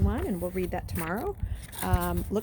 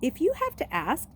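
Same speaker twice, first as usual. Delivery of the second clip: higher, louder amused sneer; smirking tease; laughing; 7 semitones higher, 3 dB louder than usual. Acted. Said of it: "laughing again".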